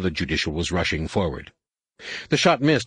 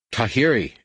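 shouted; 4 semitones higher, 3 dB louder than usual. Acted. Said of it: "Anakin shouted".

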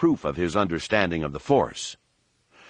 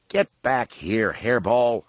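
crying out; 3 semitones higher, slower than usual. Acted. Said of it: "Han cried".

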